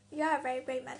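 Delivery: chuckling through a compliment; laughing. Real, not acted. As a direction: say it with a real laugh in the voice. Laughs while praising the patient.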